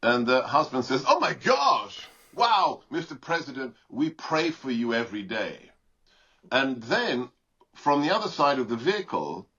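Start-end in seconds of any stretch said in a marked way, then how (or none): 1.1-5.7 imitating an Indian husband's accent, thrilled to meet the president; South Asian accent. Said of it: "with relatively thick, uh, South Asian accents".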